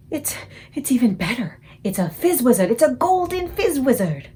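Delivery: a friendly giant marvelling at his catch; thrilled giant. Acted. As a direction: savour the golden fizz wizard. Giant thrilled by golden dream.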